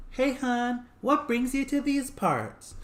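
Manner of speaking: very high, slow falsetto woman voice; man imitating a woman. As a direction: sweet-talk like a man playing his fiancée. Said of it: "a man imitating a woman's voice".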